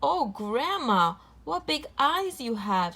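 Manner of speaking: put-on a little girl startled by grandma's eyes; surprised. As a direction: draw out the wonder in surprise. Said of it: "she said, surprised".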